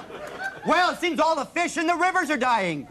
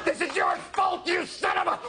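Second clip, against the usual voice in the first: panicked outrage; 2 semitones higher, 4 dB quieter, faster than usual. Acted. Panicked scene shouting.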